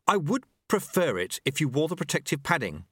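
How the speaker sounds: a startled novice stammering; nervous boy. A narrator's reading. Apprentice answers his master, nervous. Lobsang voiced.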